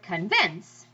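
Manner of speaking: "convince" with a light "con" and stressed "vince"; stress on second syllable. Shown as a demonstration. Teacher giving an iambic example, "convince" stressed on last syllable. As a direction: slowly lean on the end of "convince". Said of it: "meter that goes down, up".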